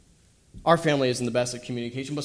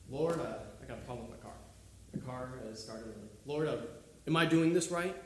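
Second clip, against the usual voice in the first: hushed prayer; 10 dB quieter than usual. Retold or imitated. Acting out a hushed everyday prayer.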